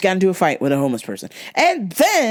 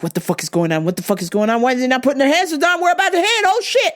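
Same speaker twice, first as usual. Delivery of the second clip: rising panic; 6 semitones higher, faster than usual. Retold or imitated. Driver closing on stopped Jaguar, rising panic. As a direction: panic climbing toward the crash. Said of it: "I'm like".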